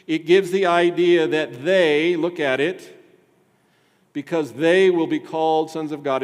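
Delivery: loud, driving pulpit voice; emphatic preaching. Acted. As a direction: hammer home the emphasis. Preaching at full force.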